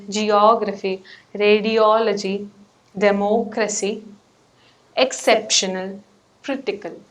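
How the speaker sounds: geOGraphy, radiOLogy, deMOCracy, exCEPtional, CRItical; third-from-last syllable stress. Shown as a demonstration. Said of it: "third from last syllable".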